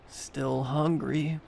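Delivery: slow, soft undead rasp; slow rasping monster voice. A narrator's reading. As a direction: scrape it out slowly, starving. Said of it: "she rasped".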